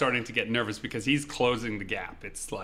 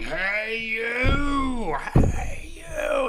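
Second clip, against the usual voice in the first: rising higher and louder with each hey you; repeated yelling; 12 semitones higher, 5 dB louder, much slower than usual. Retold or imitated. Stranger chasing him down the street, escalating high yell. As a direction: keep shouting after him, getting shriller. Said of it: "He keeps yelling".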